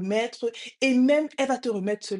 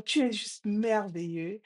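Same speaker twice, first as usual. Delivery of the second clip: imitated echo. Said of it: "La voix répond".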